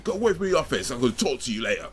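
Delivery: mock manager telling-off, starting high and easing down; half-hearted yell that settles toward normal; retold shouting. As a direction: imitate an angry boss sending someone away. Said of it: "he was shouting at me saying".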